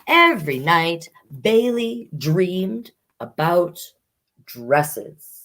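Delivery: gentle storybook read-aloud; reading to children. Acted. Librarian reading a picture book to children, gentle storyteller voice.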